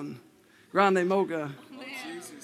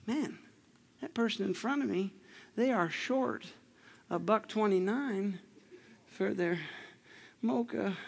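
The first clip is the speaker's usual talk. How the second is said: quiet inner voice; 6 dB quieter than usual. Retold or imitated. A churchgoer's quiet thought in the coffee line. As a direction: murmur it like thinking aloud.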